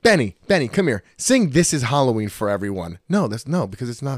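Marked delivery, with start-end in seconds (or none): 0.0-3.0 mock proud parent. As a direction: ham up calling the kid to perform. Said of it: "But I'm not like".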